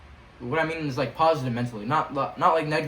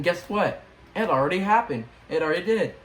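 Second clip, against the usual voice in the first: excited; 4 semitones higher, 4 dB louder than usual. Real, not acted. Excited about answered prayer.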